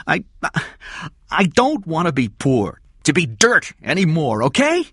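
high, loud, impassioned outburst; desperate Eddie. Acted. Eddie tells Kathy his dreams, desperate outburst. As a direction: plead your case with rising force.

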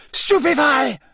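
high, loud incantation; shouted spell. Acted. Wizard bursts in casting a spell at Moody, shouting. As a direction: fire the spell out in a cry.

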